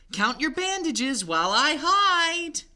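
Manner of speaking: put-on high, loud little-child voice; pleading baby mummy. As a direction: beg like a small child.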